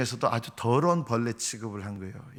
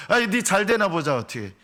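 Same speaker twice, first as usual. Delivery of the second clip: high, loud taunt falling off at the end; mocking; 7 semitones higher, 6 dB louder than usual. Onlookers dare the sufferer to succeed, mocking. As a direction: scoff at their hopes. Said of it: "이렇게 조롱을 받는 거예요".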